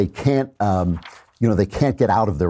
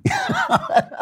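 high squealing laugh. Real, not acted. Laughing at story.

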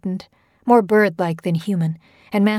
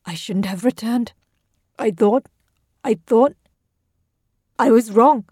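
rising, louder, halting anguish; anguished cry; 3 semitones higher, 3 dB louder than usual. A narrator's reading. Tabinda regretting her return, anguished cry. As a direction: stammer it out in dread. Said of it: "Tabinda cried".

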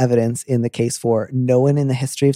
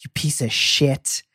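angry version. Retold or imitated. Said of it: "I can hear".

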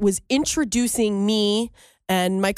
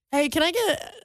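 higher voice breaking into giggles; laughing mock order; 6 semitones higher than usual. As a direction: pretend to call out a bar order while laughing. Imagined bit, breaking into laughs.

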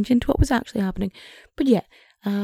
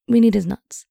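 forceful hissed whisper, louder; loud stage whisper; 7 dB louder than usual. Pretend. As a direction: bark the order in a loud whisper. Boss orders testicle theft.

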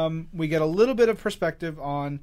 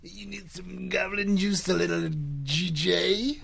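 goblin dealer voice; 3 semitones higher than usual. Pretend. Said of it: "Goblin Dealer Panagos".

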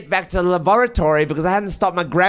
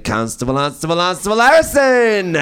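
building to a loud high yell of Harrison; mock Scooby howl; 4 semitones higher, 4 dB louder than usual. Constable answering at the press conference, rising hammed-up howl. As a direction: howl the name like the cartoon dog. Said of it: "just went".

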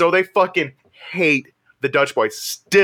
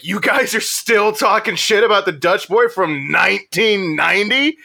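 higher, rising disbelief in a retold quote; mock incredulity; 4 semitones higher than usual. Dutch Boy member learns of the old grudge, imitated incredulity. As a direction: end on an astonished question.

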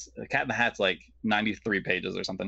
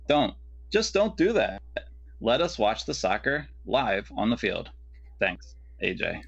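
kindergarten storybook voice. Acted. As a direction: read it like a kindergarten story time. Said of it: "kindergarten reading storybook voice".

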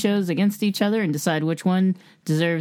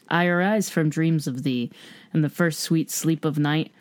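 poem reading. Shown as a demonstration. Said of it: "I'm gonna read this".

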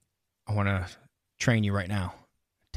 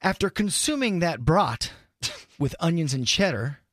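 slow test sentence; 4 semitones higher, slower than usual. Shown as a demonstration. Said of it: "Little test sentence".

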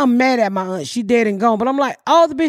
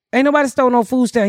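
granddad mocking; faster than usual. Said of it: "He said".

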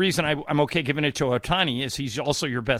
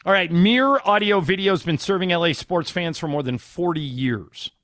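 upbeat radio ad read. Acted. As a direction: sell it like a live spot. Host reads live sponsor ad.

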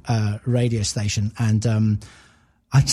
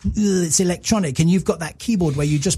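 sneering critic; 3 semitones higher than usual. Retold or imitated. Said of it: "British press went".

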